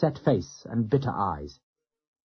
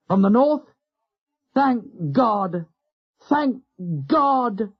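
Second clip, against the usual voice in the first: much higher, louder cry of relief; exultant shout; 9 semitones higher, 4 dB louder, much slower than usual. A narrator's reading. Captain hearing help has come, exultant shout. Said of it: "Turner shouted exultantly".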